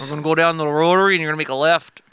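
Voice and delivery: put-on quick, botched stab at a Boston accent; terrible Boston accent. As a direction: badly fake a Boston accent, veering toward Scottish. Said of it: "that was a terrible Boston".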